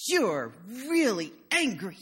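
put-on slow, drawn-out acknowledgment to a toddler; retold grandmotherly validation; emphatic validating. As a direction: stretch each word as if telling a small child.

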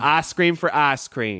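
"ice cream for ice cream" with "ice" as a long "ahs"; smoothed I vowel. Shown as a demonstration. Coach demonstrates a Southern vowel, "ice" smoothed to "ahs". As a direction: flatten both "ice" to "ahs", no glide. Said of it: "we're just gonna keep a smooth".

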